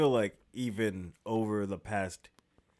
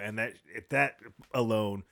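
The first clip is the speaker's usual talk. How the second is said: ordinary delivery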